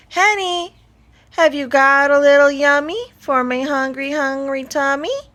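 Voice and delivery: high, loud greedy creature voice; a hungry beast calling out sing-song; loud Tumpton call. A narrator's reading. Hungry Tumpton calling to the hen for eggs, high and loud.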